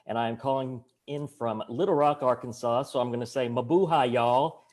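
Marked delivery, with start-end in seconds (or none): 3.5-4.6 a light Southern US drawl on "Mabuhay, y'all"; Southern accent. Shown as a demonstration. Election commissioner from Little Rock greets the panel in a light Southern US accent. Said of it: "in my Southern accent".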